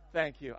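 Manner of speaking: staff said the speaker's own way, corrected; own accent. Shown as a demonstration. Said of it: "I can't say that".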